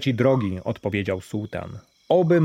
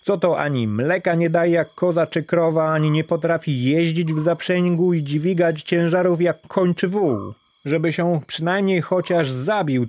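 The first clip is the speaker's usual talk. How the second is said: higher, scornful jeering; mocking crowd; 4 semitones higher than usual. Villagers scorning Daraj for freeing the gazelle, higher mock. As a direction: sneer at the poor fool's folly. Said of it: "naśmiewając się".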